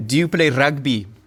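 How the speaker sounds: imitated South African accent. Talking about dialect coaching, a speaker demonstrates a South African accent. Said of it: "found the South African accent really becomes clear if you use the phrase".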